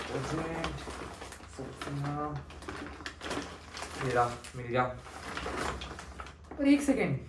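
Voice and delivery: muttering to himself while unpacking groceries, resentful; an overworked boy complaining under his breath; grumbling nephew. Acted. Ved grumbling alone about his aunt and uncle, muttering. Audition monologue as put-upon nephew.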